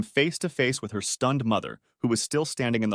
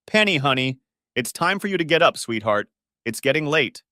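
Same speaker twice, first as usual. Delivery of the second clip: mother calling sweetly through the door; a loving mom waking her daughter; 4 semitones higher, 4 dB louder than usual. Acted.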